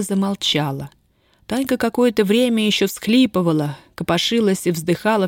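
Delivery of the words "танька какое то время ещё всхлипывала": plain reading voice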